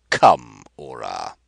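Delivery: loud command. Acted. Rapaju ordering Ora out.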